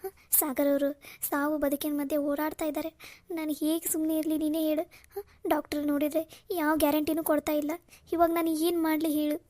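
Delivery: pleading to her sister while crying; choked-up despair; tearful. Acted. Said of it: "ಯಾಕಕ್ಕ ಇಷ್ಟೊಂದ್ ಅಳ್ತಾ ಇದೀಯ ನೀನು?".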